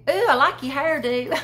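a lightly voiced Southern lady admiring a hairdo; complimenting Southern lady. Shown as a demonstration. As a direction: gush over a friend's hair. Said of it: "it's hairdo".

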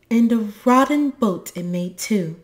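loud, high, cross retort; narrated indignant complaint. A narrator's reading. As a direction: snap back crossly. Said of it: "said Moomin Mama crossly".

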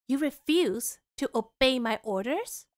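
slow, stern royal command, voiced low. Shown as a demonstration. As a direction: lay down the law like a stern princess, slowly. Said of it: "let me put on a more stern voice".

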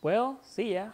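put-on British accent. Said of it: "My so-called ridiculous British accent".

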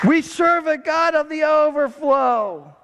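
slow triumphant preacher's shout; preaching shout. Real, not acted. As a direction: declare it to the rafters. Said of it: "preaching climax".

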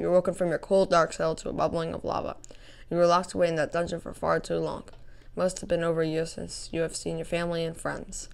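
dramatic reading of intro text; story narration. Acted. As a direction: read it like a game intro. Reads the map's intro text.

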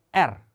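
알 with a rolled trilled r. Shown as a demonstration. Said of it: "혀를 굴리면서 발음을 한번 해보세요". (혀를 굴려서 알)

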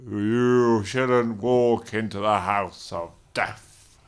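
slow, loud spooky vampire; menacing undead host. Pretend. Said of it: "Just do a vampire voice".

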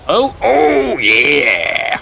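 excited. Real, not acted. Big play excitement.

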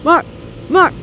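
high, loud excited cry; giddy high squeal; thrilled squeal. Real, not acted. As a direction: squeal at the sight of a tunnel. Excited at a tunnel.

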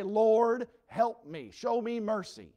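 loud, high cry for mercy; loud plea. Acted. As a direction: call out for help. Lepers' cry acted out.

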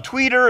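"Twitter" said wrong on purpose as "Tweeter"; deliberate mispronunciation. Shown as a demonstration. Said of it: "I know it's wrong. I did it on purpose".

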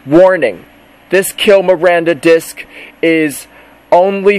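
pretend warning message. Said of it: "there has to be a warning message".

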